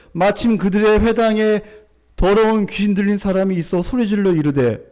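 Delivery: loud, projected Bible reading; scripture reading. A narrator's reading. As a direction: read it out firmly to the congregation. Reads scripture aloud.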